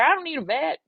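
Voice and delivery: put-on high, loud country accent. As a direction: slip firmly into the country caller's accent. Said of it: "I can't lose the accent now".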